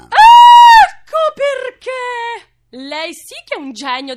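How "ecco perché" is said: high, very loud, slow outburst; operatic shout. Acted. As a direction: burst out like a diva on stage. Soprano's sudden realisation.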